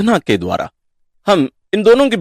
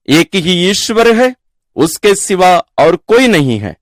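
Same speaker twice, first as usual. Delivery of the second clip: measured, solemn Gospel reading with raised pitch on key phrases; scripture reading; 3 semitones higher than usual. Acted. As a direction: proclaim the verses deliberately, pausing between phrases. Reads the Gospel passage aloud.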